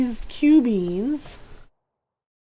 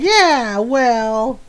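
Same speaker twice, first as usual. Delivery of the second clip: mock huffy; 6 dB louder than usual. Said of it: "they are most displeased with me".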